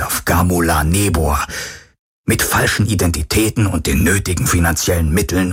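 a hint of a resigned man taking stock; measured, understated farewell, partly whispery; resigned dying Tiru.

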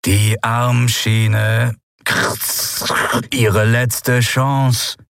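sehr langsam, verzerrt und mechanisch; rauschende Maschinenstimme. Acted. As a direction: Wort für Wort wie ein kalter Automat. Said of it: "aus dem die Stimme rauschte". (mechanoide Stimme, sehr gedehnt und rauschend)

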